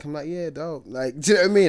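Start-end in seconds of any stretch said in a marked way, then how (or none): 0.3-0.8 put-on American accent. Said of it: "speaking in a U S accent".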